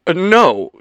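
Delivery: loud, high, flustered hesitation; stammering. A narrator's reading. Ethan stammering an answer to Leo, flustered. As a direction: stumble into a hasty denial. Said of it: "Ethan stammered".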